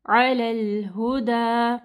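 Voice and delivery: अलल हुदा slow, stretching the अलिफ; drawn out. Shown as a demonstration. Teacher demonstrating the stretched vowel. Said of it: "अलिफ मद्दा को पढ़ना है".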